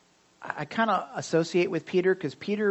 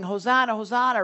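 mock cheering; 6 semitones higher, 5 dB louder than usual. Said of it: "everybody's saying".

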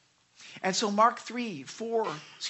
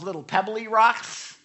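little pebbly ROCKS said lighter and higher; small-sounding rocks; 4 semitones higher, 7 dB louder than usual. Shown as a demonstration. Preacher dismissing little stones, "pebbly rocks" said small. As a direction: make "pebbly rocks" sound tiny with a raised pitch.

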